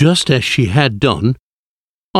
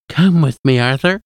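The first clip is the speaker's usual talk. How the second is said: higher-pitched, sweetly luring invitation; sweet coaxing whisper; 5 semitones higher than usual. A narrator's reading. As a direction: lure him sweetly towards you. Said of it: "she whispered sweetly".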